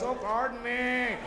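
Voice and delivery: slow, fussy, embarrassed pardon me; mock ashamed. Person after a burp, mock ashamed. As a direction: apologize over and over, prissy and drawn out.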